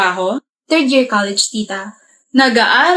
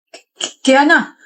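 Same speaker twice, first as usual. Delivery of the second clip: nervous stutter; slower than usual. Acted. Caught by girlfriend, stuttering.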